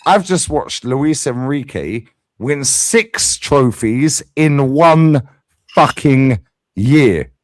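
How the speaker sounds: rising rant. Real, not acted. Ranting about trophies.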